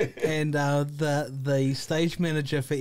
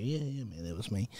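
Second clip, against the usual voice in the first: soft spoken; 5 semitones lower, 8 dB quieter than usual. Retold or imitated. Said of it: "He's real soft spoken".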